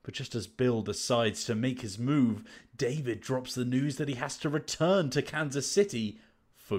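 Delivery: dramatic blurb narration with measured pauses; lightly theatrical back-cover read; story blurb read. Acted. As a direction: tease the romance like a trailer voice-over. Reads a romance blurb aloud.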